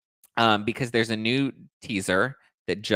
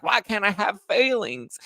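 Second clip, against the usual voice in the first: mock Brittany; 11 semitones higher, slower than usual. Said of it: "And she's like".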